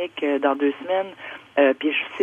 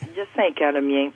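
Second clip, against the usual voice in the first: over a landline phone. Real, not acted. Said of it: "on va aller au téléphone".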